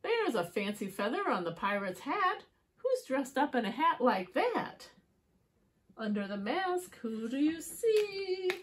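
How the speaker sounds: singsong rhyming story narration; riddle for children. A narrator's reading. Asking children who is under the mask, playful storytelling. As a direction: build up to a teasing question.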